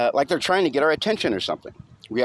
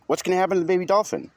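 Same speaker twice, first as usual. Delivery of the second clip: lightly voiced young kid, quick and anxious; a small boy asking fast in worry; worried little boy; 8 semitones higher, faster than usual. A narrator's reading. Young narrator asks his brother, fast and worried.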